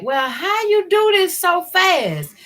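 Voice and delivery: imitating her mother. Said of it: "And my mama be like".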